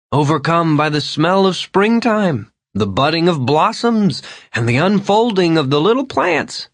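orate like an ancient teacher; old man rhapsodising about springtime; grandiose old Vern. Acted. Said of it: "Like an ancient, benevolent teacher".

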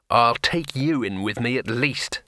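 slow words through gritted teeth. Acted. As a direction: grind it out through clenched teeth. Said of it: "said Rincewind through gritted teeth".

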